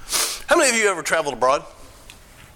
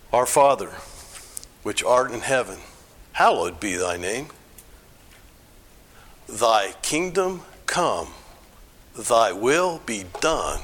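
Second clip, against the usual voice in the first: measured recital with pauses between phrases; prayer recitation; 4 semitones lower than usual. Acted. Leading the group in "this prayer", measured prayer recitation.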